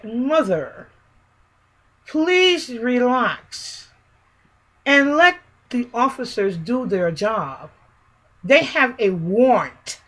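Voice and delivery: slow, carefully measured phrasing with long pauses; imitating a son calmly placing each word for his mother; oddly formal, deliberate retold plea; unfamiliar composed voice. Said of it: "in a voice I never heard of".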